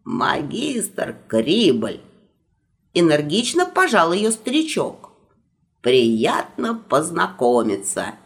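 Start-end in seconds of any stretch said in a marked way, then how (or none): 0.0-2.0 put-on old magister voice. Magister introduces himself. 5.8-8.1 put-on old magister voice. Magister greets.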